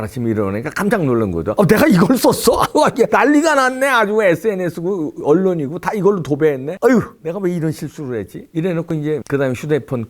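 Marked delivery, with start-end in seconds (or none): 1.6-8.5 high, loud hammed-up panic; mock shocked dismay. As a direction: gasp at your own blunder, overplayed. Imagined morning-after shock. (깜짝 놀란 척 과장된 목소리)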